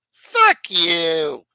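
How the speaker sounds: a sudden loud snarled curse; loud scornful outburst; mock angry yell. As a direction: spit it out like a heckler. Lashing out at Mickey Rourke.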